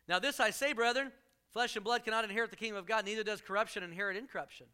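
quick scripture read. Acted. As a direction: read the verse out to the congregation. Reads scripture aloud.

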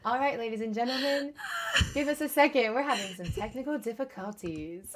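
mock late-show announcement; lightly put-on broadcast apology; late night host. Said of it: "like, a late night vibe".

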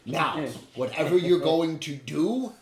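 slow, high, loud dismissal; loud and commanding, drawing out the words; angry order. Acted. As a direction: send them away with slow, forceful anger. Angry character orders group away.

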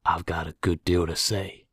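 measured, deliberate statement; slow and deliberate. A narrator's reading. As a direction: say it slowly, weighing it. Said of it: "our prisoner said slowly".

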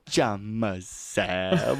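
put-on drawn-out little kid saying "Pajama Sam."; slow child voice. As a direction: stretch "Pajama Sam." slowly like a small kid. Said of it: "Frankie used to go".

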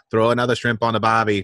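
lightly put-on Australian accent; touch of cliché Aussie accent; stereotypical Australian accent. Shown as a demonstration. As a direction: toss off a stereotypical Australian line. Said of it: "if you're gonna do Australian".

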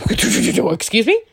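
slow, high, incredulous excuse me; drawn-out excuse me. Retold or imitated. To the date inviting himself over, slow and incredulous. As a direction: stretch it out in disbelief. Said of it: "I'm like".

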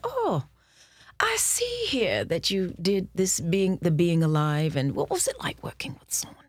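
put-on a weak, half-hearted British accent; lightly put-on British director; a hint of an English accent. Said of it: "I can't do a British accent very well".

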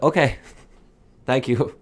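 imitated Asian accent, with a laugh. Party guest accepting a no, imitated Asian accent. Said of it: "doing Asian accents".

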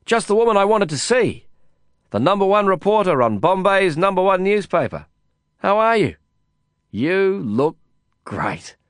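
high, loud, bubbly hello; excited greeting. A narrator's reading. Narrator greets a reporter friend in the foyer, high and eager. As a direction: gush over her as you catch up.

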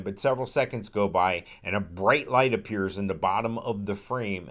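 ordinary delivery

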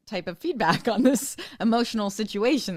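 high, loud put-on kid voice with a laugh; lightly mocking child voice with a laugh; blunt schoolboy. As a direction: voice the friend saying it point blank. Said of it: "somebody point blank say to you".

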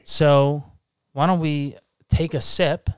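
ordinary delivery

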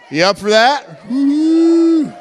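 big rising whoop; crowd hype shout. Real, not acted. Strongman firing up the congregation to cheer, shouting.

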